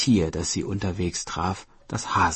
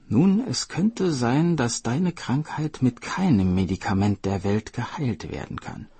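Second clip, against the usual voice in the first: a wise spirit breaking bad news gently; lightly voiced mysterious spirit; grave spirit; 4 semitones higher than usual.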